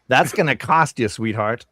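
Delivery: teasing doll purr; talking doll. Acted. GM voices the doll.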